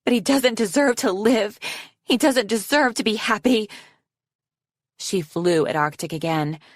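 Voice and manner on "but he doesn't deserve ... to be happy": high, furious shouted verdict; shouted condemnation. A narrator's reading. Snowflake telling Foeslayer what Arctic deserves, shouting. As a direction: condemn him, keeping pitch high. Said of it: "Snowflake shouted at her".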